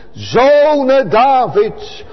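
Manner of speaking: Zone drawn out long, a slow, lifted call; mild imitated cry. Preacher voicing the blind beggar calling out to Jesus, slow pleading call. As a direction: cry Zone Davids out slowly, stretching Zone. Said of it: "En dat doet hem roepen".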